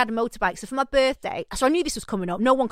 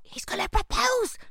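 high, slow disbelief; shocked; 12 semitones higher than usual. Retold or imitated. Daughter hearing news of proposal, shocked and high. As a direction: squeak it out in shock.

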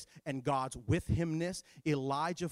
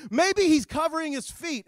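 mocking taunt; 9 semitones higher, 9 dB louder than usual. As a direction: needle them with fake concern. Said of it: "He starts to mock 'em".

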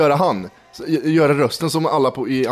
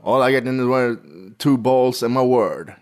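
mild quote; 3 semitones lower than usual. Retold or imitated. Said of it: "När han typ så här".

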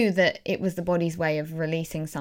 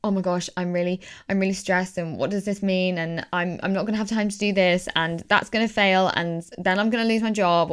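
anxious spiral; 2 semitones higher than usual. Retold or imitated. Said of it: "rather than thinking".

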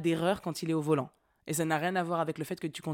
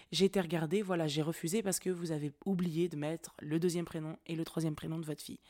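employée calmée. Retold or imitated. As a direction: explain evenly, as a pacified clerk. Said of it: "elle a commencé à me parler très calmement". (employée radoucie, très calme)

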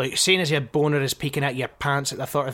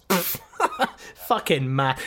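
laughing scornfully; slower than usual. Real, not acted. Mocking the doctor's word.

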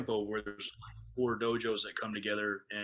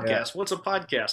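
higher-pitched, mock bewilderment; puzzled question; 5 semitones higher, 3 dB louder than usual. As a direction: act as if the word is totally new. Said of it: "that's the answer on Okinawa".

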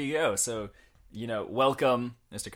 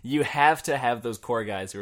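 theatrical delivery; 3 semitones higher, 8 dB louder than usual. Retold or imitated. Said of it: "the theater major showing me how it's done".

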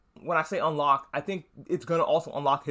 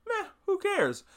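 much higher, dismissive shrug of a line; mock indifference. Imitating Homelander brushing off the doomed plane, high and dismissive. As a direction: toss it off like nothing matters. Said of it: "but then he was like".

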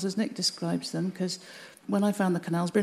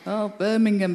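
light mock Scouse accent on "Oh, Birmingham"; imitating Liverpool folk saying "Birmingham" in a Scouse accent; 4 dB louder than usual. Mimicking how outsiders echo her hometown, light Scouse accent. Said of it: "in a Scouse accent".

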